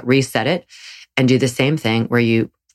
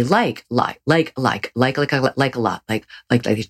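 mild imitation of someone stuck on like, like, like; lightly mock a speaker who says like every other word; filler-word talker. Yoga host mimics a friend who overuses like, lightly mocking. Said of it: "they talk like this".

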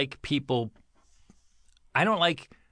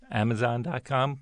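choked-up voice. Real, not acted. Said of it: "it sounds like you're choking up".

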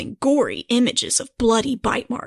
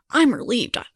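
mock Welsh accent. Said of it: "I guess that was Australian".

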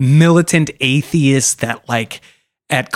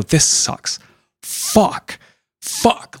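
despairing whisper; 9 semitones higher, much slower than usual. Retold or imitated. Philosopher despairing in his room.

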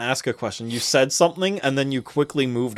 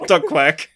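duck quack; 3 semitones higher, 5 dB louder than usual. Shown as a demonstration. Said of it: "just bling".

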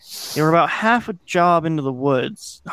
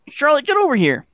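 very high, contained shout; narrated yell; 12 semitones higher, 4 dB louder than usual. A narrator's reading. Friend Dustin calling Charlotte from the trees, yelling. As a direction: summon someone from afar. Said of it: "joining in my yell for Charlotte".

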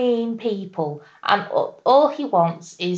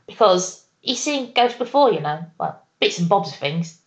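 put-on Cockney accent. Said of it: "when you do your Cockney accent".

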